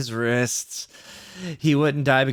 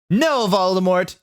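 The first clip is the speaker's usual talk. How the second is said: high, slow mock shout; shouted back; 7 semitones higher, 4 dB louder than usual. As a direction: shout the name back, stretched. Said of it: "I shouted back".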